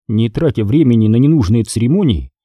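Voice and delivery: usual speaking voice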